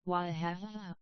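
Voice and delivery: lightly voiced sobs through the words; a hint of broken crying; sobbing. A narrator's reading. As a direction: voice catching on a sob. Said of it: "and sobbed".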